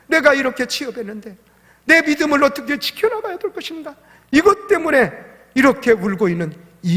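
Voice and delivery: rising, forceful sermon delivery; preaching. Acted. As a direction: preach it, pushing to a climax. Pastor preaching at full force. (힘차게 높아지는 설교 톤)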